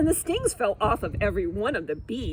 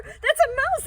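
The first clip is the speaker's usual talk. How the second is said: scared shriek; 7 dB louder than usual. Acted. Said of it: "please don't scare me".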